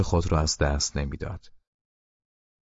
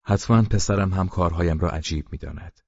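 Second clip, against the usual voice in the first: ordinary delivery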